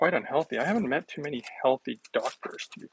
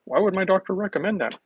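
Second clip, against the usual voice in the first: mock shocked patient; 6 semitones higher, 4 dB louder than usual. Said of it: "and they're like".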